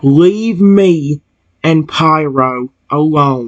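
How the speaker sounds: very stern tone. Ordering a neighbor out of the house in a role-play: very stern tone. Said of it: "I say in a very stern tone".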